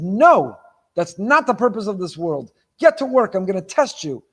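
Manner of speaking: emphatic, punchy voice of a stern God; acted-out divine rebuke; firm refusal. God rebukes Yaakov in retelling.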